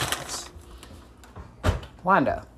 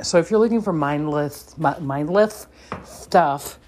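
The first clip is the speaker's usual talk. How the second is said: lisping cartoon duck voice; Daffy Duck voice; 4 dB louder than usual. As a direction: spit out the words like Daffy. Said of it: "that was my Donald, my Daffy Duck impression".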